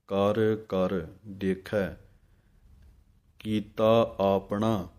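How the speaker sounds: ਆਪਣਾ said as aapna with a long open first a; slow recitation, ਆਪਣਾ with a full long aa; long first vowel in aapna. Shown as a demonstration. Teacher correcting students who drop the kanna, slow careful ਆਪਣਾ. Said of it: "ਐੜੇ ਦੇ ਕੰਨੇ ਦੀ ਆਵਾਜ਼ ਦੇਣੀ ਹੈ".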